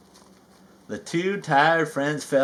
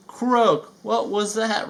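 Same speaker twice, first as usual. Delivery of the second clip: high, jumpy frightened call; fearful cry; 7 semitones higher, slower than usual. Acted. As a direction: cry out, scared of the dark mist. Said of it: "Rabbit cried fearfully".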